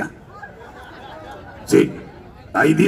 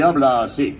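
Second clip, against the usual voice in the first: voz propia ligeramente impostada; James Garfio. Shown as a demonstration. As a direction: imposta un poco, como cantante. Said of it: "Nada más la imposto un poco". (voz levemente impostada de Garfio)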